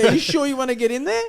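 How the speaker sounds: put-on German accent. Storyteller redoes the farmer's warning in a German accent. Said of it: "so much better in his German accent".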